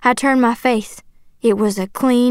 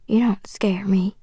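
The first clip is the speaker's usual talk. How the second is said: soft, slow defiant whisper; under the breath; 3 semitones lower, 6 dB quieter than usual. A narrator's reading. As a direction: mutter it almost without voice. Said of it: "mostly under my breath".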